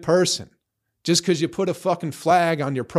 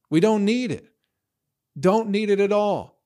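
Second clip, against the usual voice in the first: emphatic; 5 semitones higher than usual. Real, not acted. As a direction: drive the point home hard. Rant peaks against online hate.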